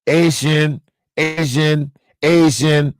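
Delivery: Asian said like ay-zhun, mocking her Haitian; Asian, Asian, Asian as a taunt; mock mispronunciation. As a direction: repeat Asian slowly, ay-zhun, ridiculing. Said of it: "You pronounce it Asian".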